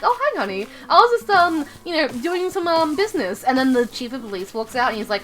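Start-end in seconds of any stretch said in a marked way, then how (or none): 0.0-3.4 higher-pitched, mock-casual mother; lightly voiced mom. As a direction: play a hint of a mom making excuses.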